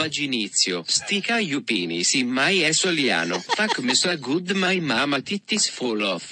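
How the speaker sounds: robotic Italian text-to-speech voice; Italian accent. Shown as a demonstration. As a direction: read it like Italian Google Translate. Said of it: "read things in an Italian voice".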